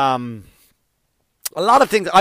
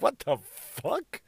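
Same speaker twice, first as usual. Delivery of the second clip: imitating a guy; 3 semitones higher, 8 dB quieter, slower than usual. Podcaster imitates a guy mid-sex, slow, put-on voice. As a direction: play the startled guy, drawn out. Imitating a guy's odd noise.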